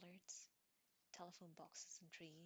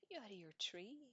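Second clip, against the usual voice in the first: alarmed shout at Harry; sharp, louder yell; 5 semitones higher, 6 dB louder than usual. A narrator's reading. Stan yelling at Harry for saying the name. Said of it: "yelled Stan".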